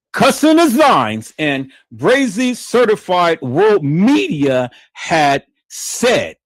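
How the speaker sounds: drawn-out loud announcing. Real, not acted. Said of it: "hyping the names again".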